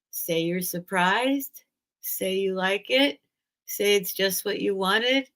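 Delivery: gentle, measured verse reading; unhurried reading of a tender dedication; poem reading. Acted. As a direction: read the dedication line by line, pausing between. Reads book dedication aloud.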